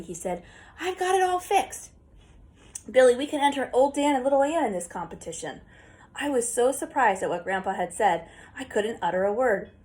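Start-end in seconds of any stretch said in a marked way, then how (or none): 0.8-5.6 much higher, eager rush; bursting with excitement; excited. Acted. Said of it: "Talking excitedly".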